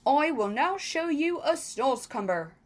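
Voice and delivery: loud showman giant. Acted. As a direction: present it like a proud giant. Giant showing off.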